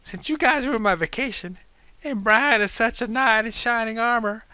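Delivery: Will's grand mock-heroic declaration. Will mocking Brian's heroism, slow pompous proclamation. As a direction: proclaim it like a gallant knight.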